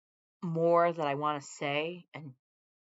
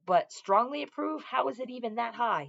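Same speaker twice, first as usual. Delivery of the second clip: incredulous; 7 semitones higher, 5 dB louder than usual. Real, not acted. Disbelief at poll figure.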